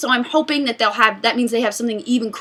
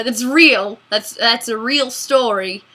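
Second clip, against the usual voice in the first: bad Australian accent; slower than usual. Shown as a demonstration. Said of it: "do this in an Australian accent".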